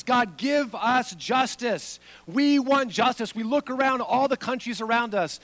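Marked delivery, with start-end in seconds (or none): 0.0-3.3 crying out. Retold or imitated. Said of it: "they're crying out for justice".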